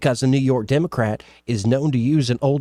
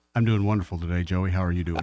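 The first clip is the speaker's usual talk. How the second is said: put-on disguised voice, much lower; 6 semitones lower, 5 dB quieter than usual. Radio co-host answering the host's greeting on air, in a put-on altered voice. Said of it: "Why are you changing your voice around?".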